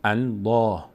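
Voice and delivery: "الله" with a full, dark L and open back "aa"; heavy Allah. Shown as a demonstration. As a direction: say "الله" heavy, mouth opening upward. («الله» پر و درشت، دهان رو به بالا)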